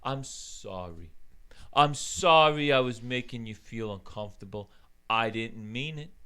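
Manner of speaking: low, soft, sheepish mock apology; mocking Cuomo. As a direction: mumble it low like a caught politician. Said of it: "And then you got Cuomo".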